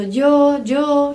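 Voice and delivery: yo with a hard j-like start, dyo. Shown as a demonstration. Teacher showing students sound variants, yo said as dyo. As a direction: demonstrate yo as dyo, each one separate. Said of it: "esse som é muito variado".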